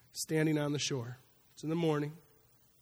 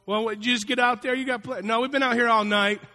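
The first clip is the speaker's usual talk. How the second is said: higher, louder, quick disbelief; incredulous back-and-forth; 6 semitones higher, 9 dB louder than usual. Retold or imitated. Jesus and disciples trading questions, incredulous. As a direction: act out the exasperated exchange.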